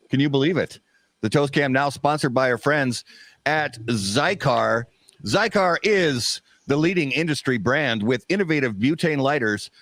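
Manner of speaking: polished sponsor read. Acted. Host introducing new sponsor Zycar, ad read. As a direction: read the sponsor copy cleanly.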